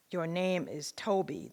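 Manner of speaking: loud, slow, insistent order; insisting. Retold or imitated. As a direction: force the name on him slowly. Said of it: "the overseer insisted".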